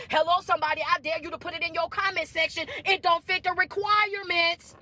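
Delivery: emphatic, rhythmic preacher delivery; motivational preaching. Real, not acted. Coach telling followers who must stay behind, motivational preaching. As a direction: preach each point home to the listeners.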